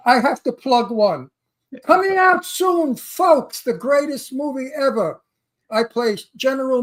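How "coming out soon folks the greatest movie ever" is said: trailer hype. Acted. Hyping his movie like a trailer.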